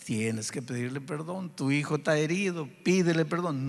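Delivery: mild, patient urging; gentle insistence. Retold or imitated. The Spirit telling a father his son is hurt, gently insistent. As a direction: press the point calmly without arguing. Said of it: "El Espíritu dulcemente va trabajando".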